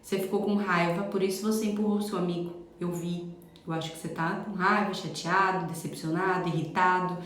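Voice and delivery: put-on name the child's feelings gently but firmly; firm and gentle. Shown as a demonstration. Mother calmly naming her son's anger, firm and gentle. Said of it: "fala num tom firme e gentil".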